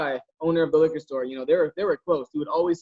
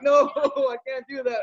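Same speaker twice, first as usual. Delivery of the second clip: laughing refusal; 9 semitones higher, slower than usual. Retold or imitated. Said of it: "I'm like".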